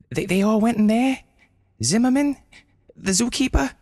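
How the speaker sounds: high urgent questions; breathless worried asking; anxious questioning. Acted. Brenda questions dying penguin.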